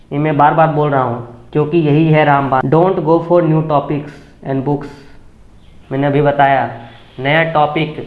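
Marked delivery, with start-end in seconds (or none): 2.7-5.0 very slow, every word separated; slow English warning. Shown as a demonstration. Teacher warning aspirants off new books, very slow. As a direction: drag out the warning so it sinks in. Emphatic English pointer in Hindi talk.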